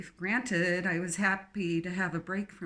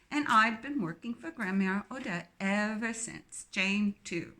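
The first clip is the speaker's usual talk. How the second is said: put-on strong English accent. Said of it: "her English accent strong".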